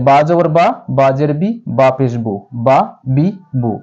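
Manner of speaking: বা, বি, বু clipped short and crisp; quick short vowels. Shown as a demonstration. Teacher showing students the right quick reading. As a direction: read each syllable quickly, no stretching. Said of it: "অবশ্যই দ্রুত পড়িতে হবে".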